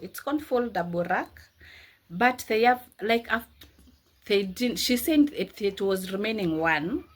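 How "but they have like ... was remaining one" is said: stumbling over words from exhaustion; tired stammering. Real, not acted. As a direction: trip over the words, worn out. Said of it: "I'm even stammering the way I'm tired".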